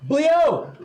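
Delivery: sudden high-pitched shout. Acted. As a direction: call out the name high and sharp. Shouted name of character.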